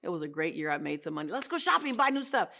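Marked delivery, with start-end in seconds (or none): 1.3-2.5 excited. Retold or imitated. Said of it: "I kept saying".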